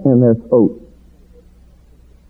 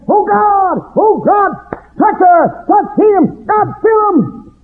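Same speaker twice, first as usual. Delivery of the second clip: fervent prayer; slower than usual. Retold or imitated. Praying for the soloist.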